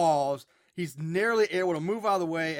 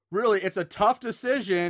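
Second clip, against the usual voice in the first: louder, mock-sarcastic call; sarcastic shout; 3 semitones higher, 5 dB louder than usual. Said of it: "Artie shouts out sarcastically".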